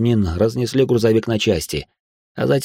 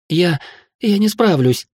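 high, frightened protest; on the edge of panic; trembling voice; 9 semitones higher than usual. A narrator's reading. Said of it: "дрожащим голосом произнесла Мина". (дрожащим голосом)

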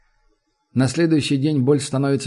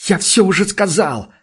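higher, louder desperate shout; кричит, сорвавшись; 7 semitones higher, 4 dB louder than usual. A narrator's reading. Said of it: "кричит он". (громкий крик отчаяния)

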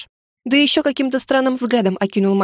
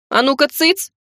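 sharp hush; 5 semitones higher than usual. Acted. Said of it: "прикрикнула я на неё".

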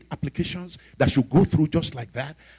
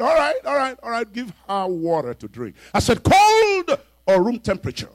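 crying surrender; 10 semitones higher, 5 dB louder than usual. Retold or imitated. Spirit gives in, crying.

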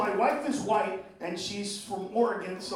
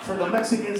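ordinary talk

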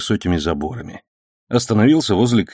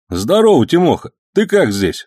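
put-on higher, brighter greeting of an old friend; glad greeting; 8 semitones higher, 4 dB louder than usual. A narrator's reading. Egor glad to see his old friend, calling out happily. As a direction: hail an old pal with pleasure. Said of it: "обрадовался Егор".

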